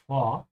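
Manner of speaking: vor with a slight W sound after the O; vor, R softened into a W-like ending; slight W glide. Shown as a demonstration. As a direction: let the O in vor glide toward a W. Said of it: "the O also has a slight W".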